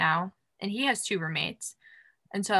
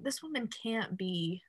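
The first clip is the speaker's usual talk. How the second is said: whispered thought; 2 semitones higher, 9 dB quieter than usual. Retold or imitated. Inner thought mid-story.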